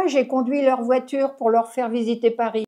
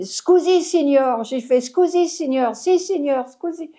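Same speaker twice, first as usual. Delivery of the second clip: mock Italian apology; 3 semitones higher than usual. To the policeman, posing as an Italian tourist, mock apologetic. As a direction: pretend Italian, apologising to the cop. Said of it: "J'ai pas parlé français".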